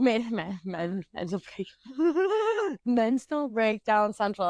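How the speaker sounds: stumble, giggle, try the phrase again slowly; a slowed, giggly second go at a hard phrase; laughing through a tongue twister. Real, not acted. Scene: repeating the cohost's tricky podcast phrase, laughing. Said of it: "That's a fucking tongue twister".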